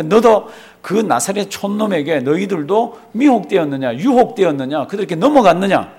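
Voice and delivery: scornful. Retold or imitated. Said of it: "예수님을 아주 이렇게 내려보잖아요".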